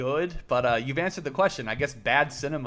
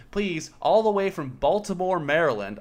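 put-on first British accent try; 5 semitones higher, 4 dB louder than usual. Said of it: "doing a British accent to represent Baltimore".

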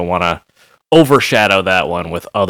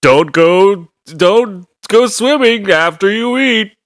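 high, drawn-out cartoon voice; piped-up, silly parody of an end-of-episode moral; cartoon sidekick; 12 semitones higher, slower than usual. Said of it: "He just shows up".

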